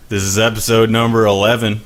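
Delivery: usual speaking voice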